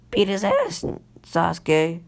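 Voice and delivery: put-on high-pitched girly cheer with a voice crack. Ino cheering on Sasuke at the fight, high squeaky cheer. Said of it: "Sorry about that voice crack".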